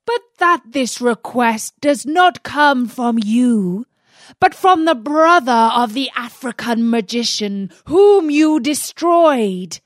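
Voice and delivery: loud, high, furious rant; angry genie. Acted. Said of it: "he cried".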